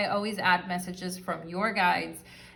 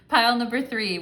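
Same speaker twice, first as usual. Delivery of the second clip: louder, higher welcome to pile three; bright greeting; 4 semitones higher, 6 dB louder than usual. Shown as a demonstration. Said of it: "restarts the greeting".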